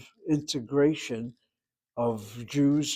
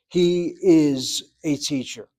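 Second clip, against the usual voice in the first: slow, loud "He is a teacher" with weight on "He"; stressed teaching demo; 6 dB louder, slower than usual. Shown as a demonstration. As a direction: read it slowly, leaning on "He". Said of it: "listen to the English".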